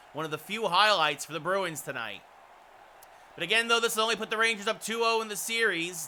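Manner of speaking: announcer's stats recap; play-by-play. Real, not acted. Announcer recaps Rangers against Bruins, broadcast commentary style. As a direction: read the period numbers out like a broadcaster.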